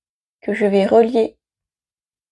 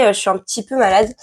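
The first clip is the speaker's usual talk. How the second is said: rough, hoarse voice from illness; a cold-worn, hoarse voice; 2 semitones lower, faster than usual. Real, not acted. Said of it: "j'ai la voix cassée".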